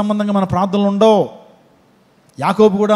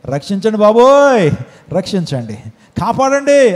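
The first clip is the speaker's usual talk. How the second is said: mock cry for help; 3 semitones higher, 4 dB louder than usual. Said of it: "గట్టి గట్టిగా అరిచావు కదా".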